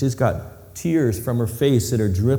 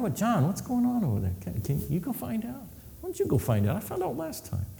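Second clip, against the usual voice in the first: hushed whispering; 9 semitones higher, 8 dB quieter than usual. Retold or imitated. Imagined disciples whispering together.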